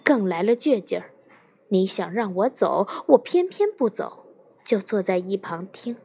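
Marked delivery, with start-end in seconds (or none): 1.7-6.0 defiant, spiking up on the refusal; stubborn defiance. Acted. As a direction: dig in your heels and refuse. Stubborn husband refuses to leave. (倔强地赌气说)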